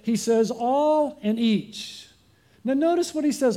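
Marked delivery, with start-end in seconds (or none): 0.5-2.1 All and each, each word drawn out and weighed; slow stress on all and each. Shown as a demonstration. Preacher spelling out All and each to the congregation, slow and deliberate. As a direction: hammer home "All" and "each", very slowly. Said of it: "So to make sure you get it".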